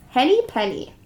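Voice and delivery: plain reading voice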